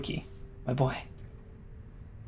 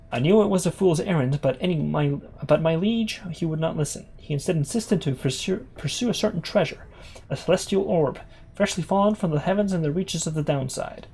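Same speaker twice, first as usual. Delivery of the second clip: Gol Gothaniel. Acted. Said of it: "In the words of Gol Gothaniel".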